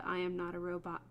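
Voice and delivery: low, quiet robot voice; monotone robot voice. Shown as a demonstration. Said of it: "I always do a robot voice, and I sound like a robot".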